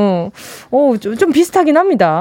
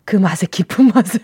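gasped realisation; 3 semitones lower than usual. Retold or imitated. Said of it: "이랬는데".

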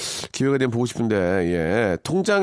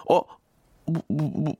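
flustered stammer; 4 semitones higher, slower than usual. Shown as a demonstration. Husband caught out by his wife, stammering. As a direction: stutter as if caught out. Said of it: "말을 더듬거나 당황하면".

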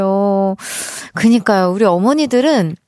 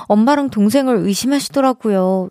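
usual speaking voice

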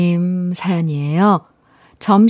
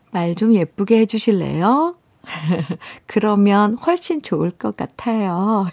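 sweet request. Shown as a demonstration. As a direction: ask nicely as if coaxing the husband. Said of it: "부탁할 땐 예쁘게 해야 돼요".

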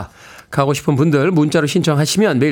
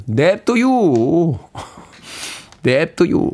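very slow comic drawl, fading into a laugh; comedian's slow dialect punchline; 개그맨 사투리 흉내로 아주 느리게; Choi Yang-rak; much slower than usual. Retold or imitated. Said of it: "최양락 선배의 그 사투리".

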